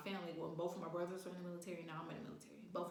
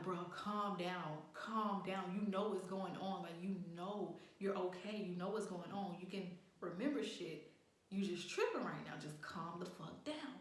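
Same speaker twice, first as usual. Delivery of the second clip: retold self-calming talk; 4 dB quieter than usual. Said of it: "telling myself, I'm like".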